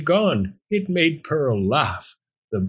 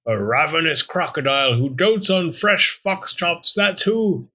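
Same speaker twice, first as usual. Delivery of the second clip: higher-pitched, theatrical boast; boastful bluffer; 5 semitones higher than usual. Acted. Talking bone posing as a crocodile, boastful.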